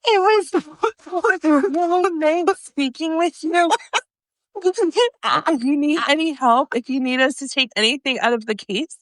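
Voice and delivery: laughing through a polite goodbye; nervous laughing sales voice. Retold or imitated. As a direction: cover the embarrassment with a laugh. Sales voice after the blunder.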